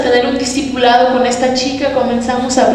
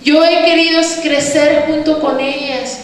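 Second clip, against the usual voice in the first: retold tearful plea; 4 semitones higher than usual. Rejected woman to her friend about the church sisters, retold tearful plea. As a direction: plead as if mildly tearful, pitched up. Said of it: "ella lloraba conmigo y decía".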